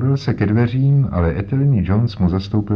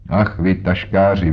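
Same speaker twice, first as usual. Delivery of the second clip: exclamation. Acted. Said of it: "vykřikl Jones".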